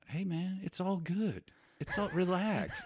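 high, laid-back surfer dude; breezy and unbothered; chill dude voice. Retold or imitated. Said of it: "the guy kept going".

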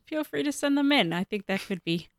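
normal talking voice

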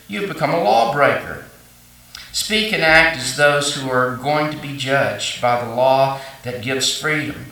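measured reading of the verses to the church; scripture reading. Acted. Reads scripture aloud.

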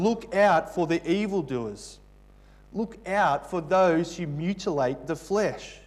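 firm, emphatic warning, a touch angry; strong warning. Retold or imitated. Preacher voicing Paul warning against evildoers, mildly angry. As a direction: press the warning home. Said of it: "Look how strongly he warns us".

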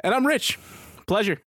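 lightly played Italian mobster accent; a hint of an Italian mobster accent. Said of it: "strong Italian accent".

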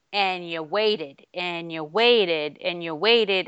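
slow, drawn-out repetition; long tedious wait. Shown as a demonstration. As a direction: stretch each phrase to make the queue feel endless. Drags out a long queue wait.

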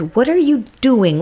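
retold frustration, voice lifted; super frustrated. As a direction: imitate a woman confronting her lover. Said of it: "she's super frustrated with him".

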